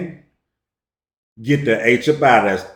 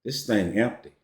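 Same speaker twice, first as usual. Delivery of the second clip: a hint of a deadpan friend, quiet; calm buddy; 5 dB quieter than usual. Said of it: "He say".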